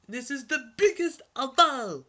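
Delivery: high, loud excited shout; high-pitched hyped yell. Real, not acted. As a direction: holler it at the top of your excitement. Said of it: "I'm yelling so much".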